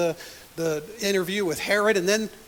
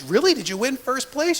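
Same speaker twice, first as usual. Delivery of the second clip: surprised mom; 4 semitones higher, 3 dB louder than usual. Retold or imitated. Mom reacts to news.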